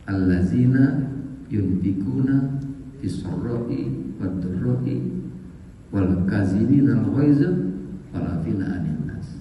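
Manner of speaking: slow, measured Arabic recitation; Quran verse recitation. Real, not acted. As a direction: recite the verse slowly, phrase by phrase.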